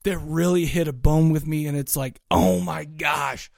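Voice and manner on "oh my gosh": hushed awe. Retold or imitated. Acts out awe at a favourite track.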